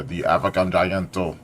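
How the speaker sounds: African Gianto in a light Nigerian accent, vowels opened; playful Nigerian accent. Shown as a demonstration. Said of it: "that's my Nigerian accent".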